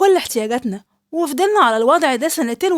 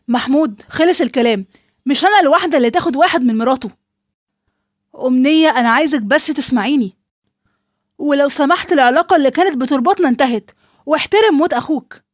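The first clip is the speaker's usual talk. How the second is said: louder, clipped and final; firm angry rebuke; 4 dB louder than usual. Acted. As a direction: shut him down with cold anger. Ending talk with brother-in-law. (رفض حازم بغضب)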